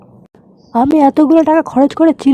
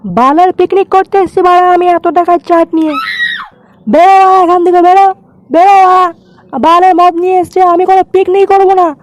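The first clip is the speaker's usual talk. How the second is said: furious; 3 semitones higher than usual. Acted. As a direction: scold him in outrage. Furious at cheap liquor.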